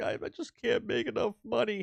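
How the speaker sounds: very high, put-on weeping and sobbing. Acting out a billionaire crying on camera over money: mock crying as a billionaire. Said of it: "a billionaire, like, crying".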